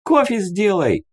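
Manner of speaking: mild high-pitched shout; called-out request. A narrator's reading. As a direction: call out an order in a high voice. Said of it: "крикнула Аби".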